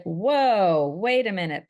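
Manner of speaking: loud, drawn-out mock whoa; retold startled protest. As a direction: imitate someone calling a sudden halt. Son objects to car request.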